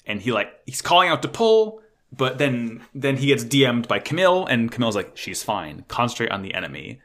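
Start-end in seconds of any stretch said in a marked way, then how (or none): 5.2-7.0 calm instruction. Retold or imitated. Calm guide voice retold.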